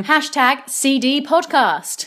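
slow announcer read of the hashtag; announcer plug. Acted. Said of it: "all you do is you tweet at us using".

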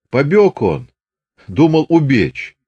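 drawn-out mocking explanation; Chubaty's voice. A narrator's reading. Chubaty explaining the escape, lightly voiced.

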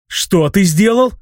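high, slow disbelieving question; astonished exclamation. A narrator's reading. Hero reacts to the mage's revelation, astonished. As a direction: stretch it upward in amazement. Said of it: "удивлённо воскликнул я".

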